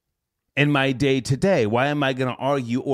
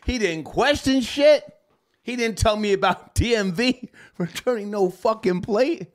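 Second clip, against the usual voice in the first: delighted, barely holding back laughter; gleeful retelling of the easy second call; amused retelling; 9 semitones higher than usual. Real, not acted.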